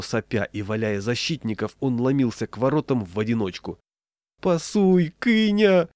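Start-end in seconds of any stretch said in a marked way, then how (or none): 4.4-5.9 high, wailing plea; suffering boy. A narrator's reading. Boy ignored by his teammate, suffering high plea. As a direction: call out in desperate boyish misery. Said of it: "страдал тоненький".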